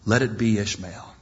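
demanding. Acted. Abraham quietly demanding of God, low and firm. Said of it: "He says demandingly".

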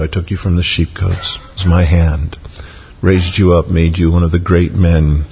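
lightly acted, gentle reassurance as God; a touch of tenderness, unhurried and falling; tender assurance. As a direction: reassure gently, letting the pitch settle down. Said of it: "God is assuring him tenderly".

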